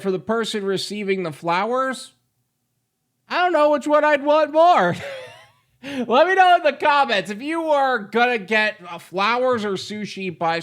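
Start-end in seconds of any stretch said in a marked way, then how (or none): 3.3-7.3 higher and louder, bright teasing; excited. Real, not acted. Vlogger asking viewers to comment, excited and loud. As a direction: pitch it up to the viewers.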